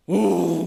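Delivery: loud, drawn-out furious "oh"; acted explosion of rage; enraged groan. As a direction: let anger erupt in one long roar. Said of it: "막 지금 열이 받았어요".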